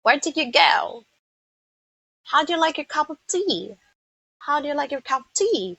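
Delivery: lightly put-on British English, lifted in pitch; British accent. Shown as a demonstration. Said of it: "some of us are also good".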